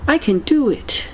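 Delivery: high-energy mind-power mantra; energetic affirmation. Shown as a demonstration. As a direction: pump yourself up on I. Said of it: "I need this kind of energy in my life".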